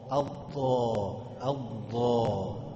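الضا slowly with an emphatic د from the tongue tip; slow mock error on الضا; dad as dal. Shown as a demonstration. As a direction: drag out الضا as a thick دا. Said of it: "طلعتها من طرف اللسان وفخمتها".

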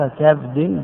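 "كبد" as kabd, a on the kaf; "كبد" in one closed syllable, kab-d; vowelled kabd. Shown as a demonstration. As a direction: say "كبد" with fatha, then a silent-vowel ba. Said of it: "بفتح الكاف وإسكان الباء".

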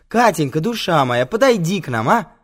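high, loud call to someone across the set. Acted. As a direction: summon her with a sing-out endearment. Calling the actress over sweetly.

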